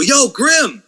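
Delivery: mild mock holler; retold yell. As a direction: imitate a guy calling to someone. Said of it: "I heard some guys yell".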